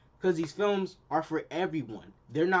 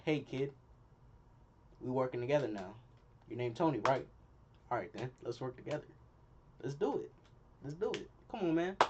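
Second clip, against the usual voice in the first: softer, friendly invite to a new teammate; respectful Cap; 2 semitones lower, 5 dB quieter than usual. Pretend. Vlogger voicing Cap welcoming Tony, mildly softer and friendly. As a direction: talk him in gently, like a respectful captain. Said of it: "Cap be hella respectful".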